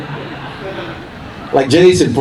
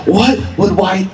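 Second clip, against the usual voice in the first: slow, drawn-out pondering, pitched up; mock-solemn inner question; 6 semitones higher, slower than usual. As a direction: ask yourself slowly, with mock gravity.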